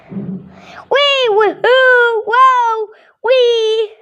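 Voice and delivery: high woohoo fading to a whispered wee; excited cheers. Pretend. Child voicing birds at play, high cheers ending in a whisper. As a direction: cheer then breathe out the last wee. Birds playing, gate opened.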